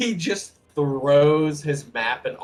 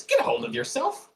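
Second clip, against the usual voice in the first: high, sharp scolding shout; angry snap; 13 semitones higher, 7 dB louder than usual. Acted. Gnome scolds the sobbing woman, sharp and loud. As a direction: slap sense into her with your voice. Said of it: "smacks her in the face twice and says".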